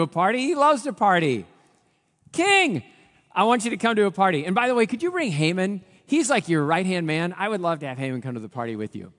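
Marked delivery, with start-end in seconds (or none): 2.3-9.1 coaxing queen. Acted. Esther sweetly coaxes the king.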